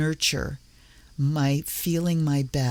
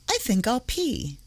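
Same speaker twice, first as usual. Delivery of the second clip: mock deliberation; 7 semitones higher than usual. Mimics someone pondering obvious habits.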